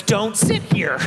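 high, drawn-out indignation; exaggerated scandalised exclaiming; retold outrage. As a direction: stretch it in appalled disbelief. Retelling outrage at exit door sitters.

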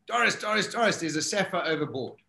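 mildly urgent call to the skipper; retold urgent call. Deckhand running back to warn Doris, retold urgent call.

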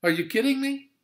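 exasperated divine disbelief; God incredulous. Acted. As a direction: scold him as if it's absurd. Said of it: "But God said to Jonah".

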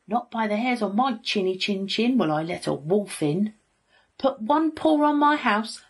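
high, loud pig threat; shouted defiance. A narrator's reading. Little pig refusing to let the wolf in, shouted defiance. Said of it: "shouted the pig".

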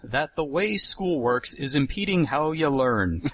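put-on folksy Minnesota accent, dropping into a laugh; broad Upper Midwest vowels, casual ya and ta. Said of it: "doing a terrific job with your Minnesota accent".

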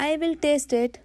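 high, self-important announcement; grand. A narrator's reading. Rabbit claims the honey from Pooh, grandly. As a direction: declare it with a touch of grandeur. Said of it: "Rabbit said grandly".

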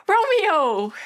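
loud yearning call of his name; longing cry. Acted. Crying out for her love.

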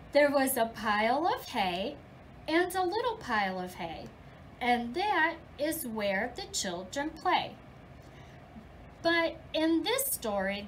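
lively storybook reading for little ones; reading to children. Acted. Teacher reading The Big Red Barn to her class, lively storybook voice. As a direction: read it like story time in class. Teacher reads picture book aloud.

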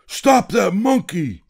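urgent call to catch the thief; commanding shout. Acted. Seller orders guards.

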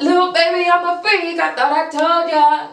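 high cute imitation of her voice; imitating cute voice. Fan copying the rapper's cute voice, high and sweet. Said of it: "how did your voice get that cute".

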